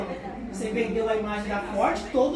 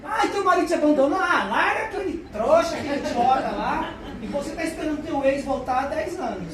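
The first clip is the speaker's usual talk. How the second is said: fast, loud and high, laughing through it; breezy advice-giver; 4 semitones higher, 5 dB louder than usual. Retold or imitated. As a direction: rattle off easy advice like the cheerful friend. Mock advice to a friend.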